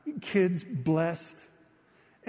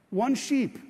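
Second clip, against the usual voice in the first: "One sheep" pitched higher and louder, punching "One"; emphatic stress; 7 semitones higher, 4 dB louder than usual. Real, not acted. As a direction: hit "One" hard and high, then let "sheep" fall. Preacher stresses the single sheep.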